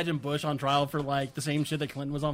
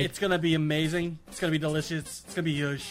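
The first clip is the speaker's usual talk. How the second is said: presidential address. Acted. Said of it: "do a president voice".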